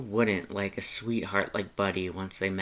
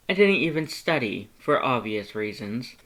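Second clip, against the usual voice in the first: joking Papyrus; 3 dB louder than usual. Acted. Papyrus jokes about himself.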